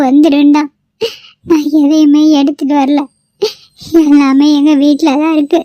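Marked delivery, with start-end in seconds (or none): 1.5-5.6 words breaking into a cry; pleading through tears to the mother-in-law; new bride tearfully tells her mother-in-law she brought nothing. Acted. Bride apologises, near tears.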